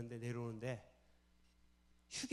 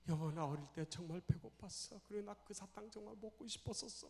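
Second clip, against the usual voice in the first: higher, softer toward the end, as if crying; acted tearful confession; 5 semitones higher, 4 dB quieter than usual. Husband confessing hunger to wife, acted crying. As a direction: let childhood hunger spill out, mock-weeping. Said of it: "남편이 컥 하고 울더래요".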